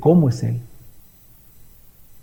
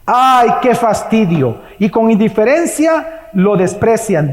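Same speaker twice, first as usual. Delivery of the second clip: bored disdain; 4 semitones higher, slower than usual. Retold or imitated. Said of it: "también dicen".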